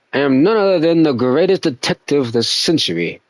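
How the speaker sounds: lightly posh English detective, self-assured. Acted. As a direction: announce it like a smug English sleuth. Holds detective voice reading dialogue.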